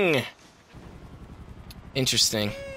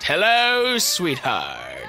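mimicking; 5 semitones lower, much slower than usual.

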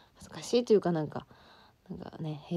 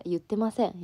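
whisper; 2 semitones higher, 3 dB louder than usual. Acted. Unvoiced whisper, denying playfully.

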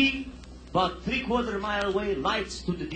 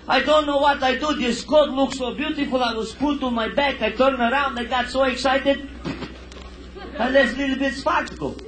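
flustered apology; 3 semitones higher than usual. Acted. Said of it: "Now she's got heavy duty excited".

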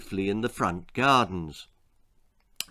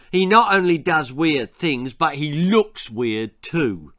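emphatic schoolboy scorn, slowing at the end; scornful snort; 2 semitones higher, 4 dB louder than usual. Acted. Ginger explaining to Milo's little sister, snorted. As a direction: sneer it as a bully would. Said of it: "snorted Ginger".

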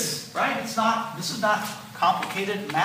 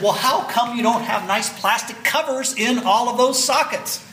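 scolding; 4 semitones higher than usual. Retold or imitated. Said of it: "I proceeded to scold him".

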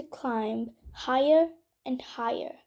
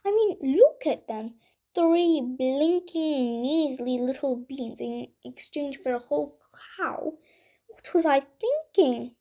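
put-on boy fuming alone at his own mistake; angry at himself. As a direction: scold yourself for being foolish. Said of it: "he said to himself angrily".

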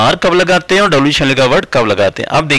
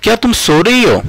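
asking; 8 semitones higher than usual. Pretend. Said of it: "मैंने बोला".

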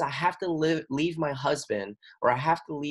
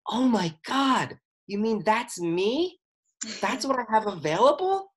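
hammed-up awestruck student; amazed discovery; 7 semitones higher than usual. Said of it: "so that you can go".

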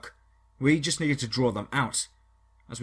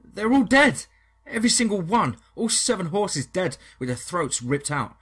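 much higher and louder, then slowing down; distraught shout; 7 semitones higher, 6 dB louder than usual. Acted. Jerry reports slaughtered horses.

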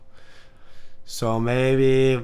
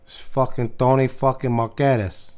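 put-on Latino accent. Prank caller as Tony, heavy accent. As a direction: lean on each word like a tough guy. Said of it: "too popular of a fucking accent".

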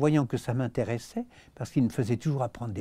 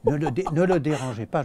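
flustered protest; 2 semitones higher, 5 dB louder than usual. Retold or imitated. (protestation affolée, plus haute et plus forte)

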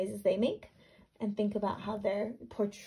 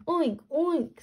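high squealy piglet oink; 7 semitones higher, 5 dB louder than usual. Acted. Reading Gilbert the pig's high oink. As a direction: oink like a little pig. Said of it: "said Gilbert".

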